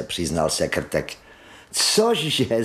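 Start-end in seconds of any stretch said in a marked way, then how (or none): 1.7-2.6 high surprised Cože?; astonished cry. Acted. Water Rat amazed Mole never sat in a boat, high astonished cry. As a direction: gasp it out, jaw dropped. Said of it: "zvolala krysa s otevřenými ústy".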